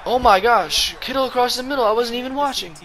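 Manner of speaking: high, loud shout of disbelief; excited outburst. Real, not acted. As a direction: yell in amazed disbelief. Surprised by own play.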